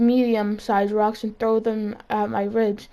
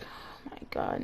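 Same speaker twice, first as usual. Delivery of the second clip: slow whispered oh my God; realizing the principal knows, whispering; whispered panic; 15 dB quieter, slower than usual. Retold or imitated. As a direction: breathe it out slowly in panic.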